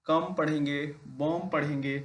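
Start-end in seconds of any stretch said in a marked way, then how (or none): 0.1-0.2 "कम" ending on the M, no B; silent B. Shown as a demonstration. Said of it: "इसमें बी का pronunciation नहीं करेंगे". 1.1-1.5 "बॉम" ending on the M, no B; silent B. Shown as a demonstration. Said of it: "इसमें बी का pronunciation नहीं करेंगे".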